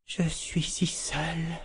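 unvoiced, trembling whisper of loneliness; terrified whisper. A narrator's reading. Kalan lost among the dead, whispering in fear.

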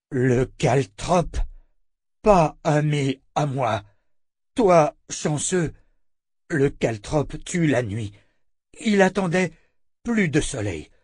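halting, drawn-out creature speech; monster captive, wary. Acted. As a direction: speak slowly in broken bursts as a captive monster. Monster character in narrated story.

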